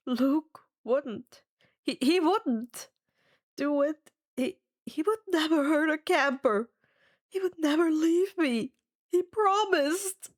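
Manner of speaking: heartbroken denial. Acted. Sinks down against wall, heartbroken.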